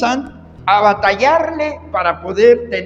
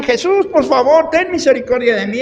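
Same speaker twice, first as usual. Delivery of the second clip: higher pleading call; pleading blind man; 5 semitones higher than usual. Retold or imitated. Blind man begs Jesus for mercy, pleading call. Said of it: "aquel ciego que decía".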